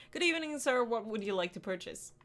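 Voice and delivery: dutiful shop greeting; polite cashier greeting. Shown as a demonstration. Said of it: "I'm just a miserable, tasteless cashier".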